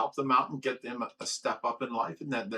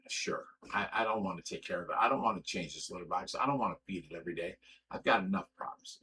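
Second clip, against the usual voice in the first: low, weary mock concession; offhand agreement; 6 semitones lower, 4 dB quieter, faster than usual. Man retelling how he let her take the cat, offhand. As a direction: give in offhand, voice dropped low and quick.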